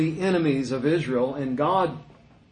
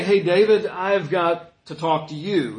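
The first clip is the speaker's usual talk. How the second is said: louder, casual call with a laugh, then slowing down; breezy greeting; 4 dB louder than usual. Shown as a demonstration. Nathan wrongly greeting David casually: loud breezy hello. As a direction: toss it off like a friendly hello. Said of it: "but he doesn't say".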